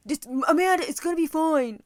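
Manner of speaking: high, soothing calm-down voice; lightly imitating a calm husband; reassuring husband. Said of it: "That was Chris was in the background".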